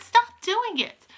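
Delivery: high, drawn-out protest; pleading outburst, pitched high; indignant cry. A narrator's reading. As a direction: cry it out slowly and urgently. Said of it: "I cried".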